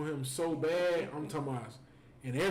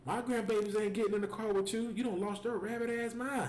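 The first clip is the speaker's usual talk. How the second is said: higher-pitched imitation of indignant scolding; going off on him; 7 semitones higher than usual. Her mama defending the grandbabies, imitated angry rant. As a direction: act out a grandmother's outraged telling-off. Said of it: "they went off on him".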